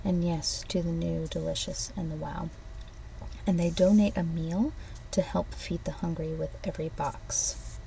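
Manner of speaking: upbeat product pitch; ad read. Acted. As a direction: read it like a commercial. Reads an ad script.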